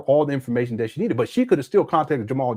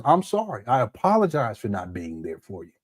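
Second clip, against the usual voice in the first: sincere apology; 5 semitones lower, 4 dB quieter than usual. Pretend. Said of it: "And apologize".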